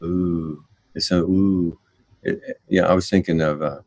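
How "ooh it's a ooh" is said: mock awe. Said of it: "sounded like such a philosophical".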